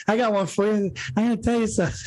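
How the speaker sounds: lightly imitated gruff buddy voice; mock low buddy voice. Teasing his cohost's confiding line, a hint of gruffness. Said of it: "I love how he went low".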